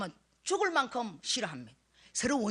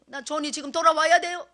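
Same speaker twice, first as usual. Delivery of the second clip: louder, pleading cry for the son's return; desperate plea; 5 semitones higher, 8 dB louder than usual. Retold or imitated. Mother praying to God for her son, loud desperate plea. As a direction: beg God out loud to bring him home.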